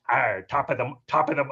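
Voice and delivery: pirate arr. Shown as a demonstration. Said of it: "I sound like a pirate".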